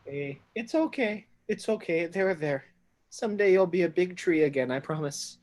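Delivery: high, gentle coaxing voice; soothing the door. Acted. Traven soothing the wooden door, tender. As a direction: comfort the old wood like a hurt animal. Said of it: "with the speech of Beast and Leaf".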